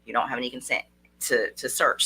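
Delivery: low, calm, measured refusal; slow and soft. Shown as a demonstration. Coach modelling a reply to an officer, calm and low. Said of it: "talk very slow and soft and say".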